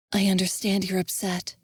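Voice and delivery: calm him down kindly; soothing. Acted. Tavanna comforting Envis, soothing. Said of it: "Tavanna said soothingly".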